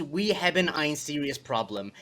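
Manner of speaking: slow American reading of the Dutch line; English-reader version. Shown as a demonstration. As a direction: read it slowly the way an English speaker would. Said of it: "can you say that correctly in a Dutch accent".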